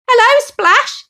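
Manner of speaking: high, loud happy greeting; joyful shout. Acted. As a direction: shout hello from the water. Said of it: "he shouted".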